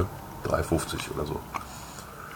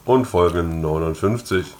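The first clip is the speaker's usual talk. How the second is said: talking through a mouthful; words round a bite of food; mouth full. Real, not acted. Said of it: "heute mit vollem Mund".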